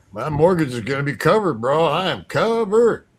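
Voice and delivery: acting out a thrilled friend; retold jubilation. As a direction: crow over good news, stretching the last words. Friend rejoices over well-paid job.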